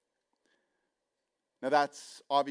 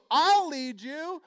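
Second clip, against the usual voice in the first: thorn bush offering to lead; 13 semitones higher, 9 dB louder, much slower than usual. Acted. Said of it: "And he goes".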